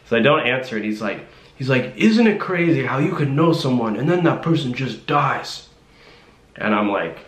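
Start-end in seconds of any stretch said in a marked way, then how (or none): 2.0-5.7 higher-pitched, worked-up imitation; mock someone ranting, without real volume; retold yelling. Imitating the driver ranting about death, mild mock yell. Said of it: "he's yelling at me".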